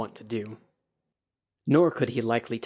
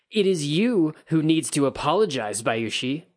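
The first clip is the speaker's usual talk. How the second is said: put-on loud, higher drunken bark; barked demand; 5 semitones higher, 5 dB louder than usual. A narrator's reading. Kikita demanding an apology from Bayushi, loud barked. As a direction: snap the demand at him. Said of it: "the Kikita barked".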